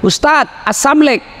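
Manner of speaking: a high, quick mock call of a student. Student calling out to his teacher, lazily slurred. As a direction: toss off a lazy slurred greeting like a hurried student. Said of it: "langsung dia teriak".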